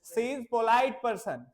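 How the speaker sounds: slow dictation. Shown as a demonstration. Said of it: "तो वो क्या है?".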